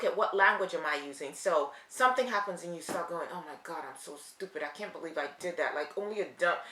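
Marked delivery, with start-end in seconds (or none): 3.3-6.6 low, soft muttered self-blame; self-reproach. Acted. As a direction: beat yourself up under your breath. Acting out negative self-talk.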